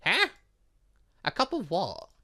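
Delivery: ordinary talk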